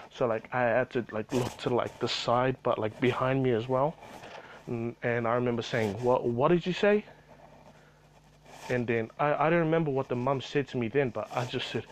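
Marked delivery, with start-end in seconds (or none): 6.0-7.0 stammered challenge rising sharply at the end; mildly indignant, higher-pitched question; retold angry challenge. Employee turning round on the mother, retold angry challenge. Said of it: "I was so fucking angry".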